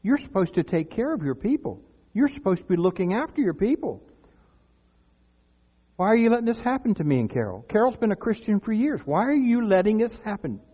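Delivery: mildly indignant retold prayer; retold complaint to God. New Christian just laid off questions God, mild reproach. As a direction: replay an aggrieved plea to God. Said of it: "somewhere along the line I said".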